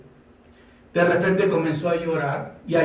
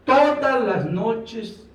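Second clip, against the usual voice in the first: drawn out; 5 semitones higher, much slower than usual. Acted. Preacher dwells on nightly weeping.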